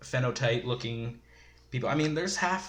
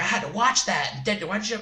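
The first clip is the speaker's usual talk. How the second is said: mock Jodie Foster; 7 semitones higher, 4 dB louder than usual. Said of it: "Jodie Foster, it's like".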